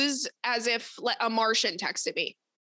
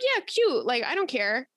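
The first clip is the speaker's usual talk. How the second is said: mock fake enthusiasm. Fake politeness about wine bar.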